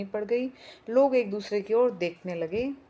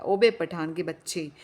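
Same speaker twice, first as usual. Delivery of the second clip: angry shout; 4 dB louder than usual. Acted. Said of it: "Pathan को संबोधित करके चिल्लाया".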